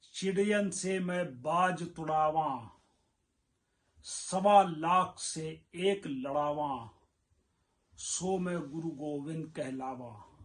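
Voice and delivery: measured, ringing recital of a verse; verse recitation. Acted. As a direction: declaim the couplet line by line, with pauses.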